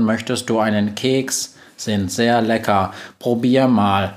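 even robot voice, slow in places; monotone robot. Acted. Robot assistant greeting the witch, monotone. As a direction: speak like a flat machine.

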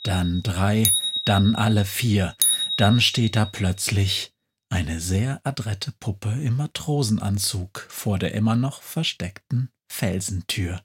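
ordinary delivery

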